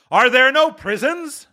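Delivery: high, biting question; mocking spirit. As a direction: throw his words back. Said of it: "said the spirit".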